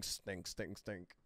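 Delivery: low mock bug voice, lightly done; stink bug voice. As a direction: imitate the stink bug croak. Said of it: "That same stink bug voice".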